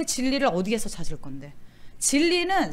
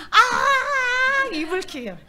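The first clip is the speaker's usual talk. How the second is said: mock crying; 12 semitones higher, 5 dB louder, much slower than usual. Acting out bedtime regret.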